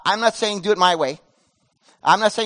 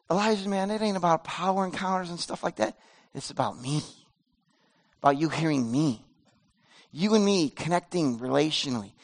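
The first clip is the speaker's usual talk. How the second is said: much softer and lower, close and intimate; low whisper; 2 semitones lower, 6 dB quieter than usual. Acted. God speaking to Elijah in a low, soft near-whisper. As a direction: speak it like a secret between friends. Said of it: "he speaks to him in a low whisper".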